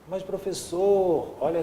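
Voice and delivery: high, drawn-out pupil's protest; objecting student. Acted. Student interrupting the professor with a doubt, drawn-out objection. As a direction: stretch it out as a puzzled pupil's appeal.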